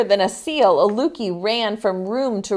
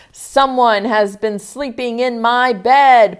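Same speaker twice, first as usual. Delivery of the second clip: louder, mild bellow; bellowing papa bear; 2 semitones higher, 6 dB louder than usual. Acted. Papa Bear finding his bed slept in, mild bellow. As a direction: call it out like a big angry bear. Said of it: "Papa Bear bellowed".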